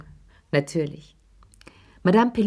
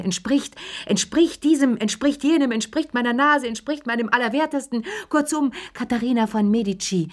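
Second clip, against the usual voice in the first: shrill-pitched mock outrage, much higher; mocking the mother; 6 semitones higher than usual. Chérie mimics Madame Pelloux's outrage for Lea, higher and mocking. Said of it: "damit ich Madame Pellouxs Arme nachmachen kann".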